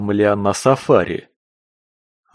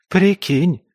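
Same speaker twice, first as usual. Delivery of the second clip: higher, louder smug scoff; smirking snort; 9 semitones higher, 4 dB louder than usual. Acted. Белка to the captive, smirking snort. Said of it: "хмыкнула Белка".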